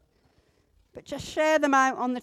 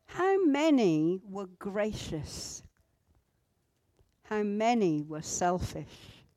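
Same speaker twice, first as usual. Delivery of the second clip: reflective prayer; 4 dB quieter than usual. Acted. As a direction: pray it reflectively, leaving room after each question. Models a reflective prayer to God.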